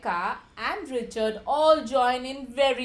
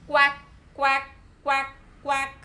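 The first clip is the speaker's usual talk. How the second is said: shouted quacks; 2 semitones higher than usual. Acted. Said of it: "shouts Richard".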